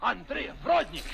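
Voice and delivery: exaggerated Eastern European accent, proclaimed; hammy Bulgarian consul bellowing the name; cartoon Eastern European accent; mock Bulgarian accent. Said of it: "this isn't a stereotypical accent at all".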